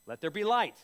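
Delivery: booming command of creation; proclaiming loudly. Retold or imitated. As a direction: declare it like God speaking light into being. Quoting God creating world.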